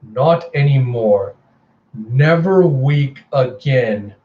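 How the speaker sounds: slow, gloating, savoring each word; grinning menace. Acted. Murderous sister gloats slowly over her kill. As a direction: grin through it, slow and triumphant. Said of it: "she just grins and goes".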